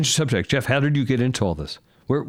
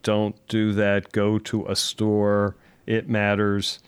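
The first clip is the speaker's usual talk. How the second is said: slow flat robot voice; 2 semitones lower, much slower than usual. Retold or imitated. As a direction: say it like a monotone robot. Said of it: "doesn't talk like a robot like I just did".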